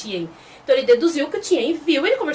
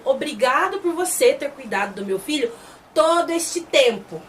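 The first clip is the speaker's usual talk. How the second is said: slow, deliberate retold thanks; measured, weighty delivery, stretching key words; solemn thanks. A father thanking the chief for looking after his son, solemn and slow.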